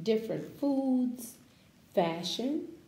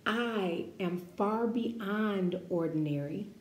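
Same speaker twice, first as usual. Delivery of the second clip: call and response. Shown as a demonstration. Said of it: "say that with me".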